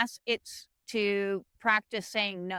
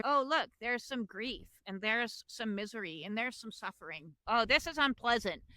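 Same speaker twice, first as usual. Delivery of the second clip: quiet mock dismissal; 7 dB quieter than usual. Mock inner voice avoiding grief.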